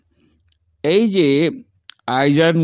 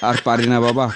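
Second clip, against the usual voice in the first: laughing exasperation; 2 semitones lower than usual. Acted. Teacher claims he is choking.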